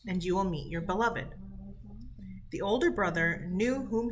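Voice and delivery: reading a folk tale to a class, steady and clear; lightly voiced storybook reading; story narration. A narrator's reading. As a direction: tell it like a storybook to sixth graders. Teacher reads folk tale aloud.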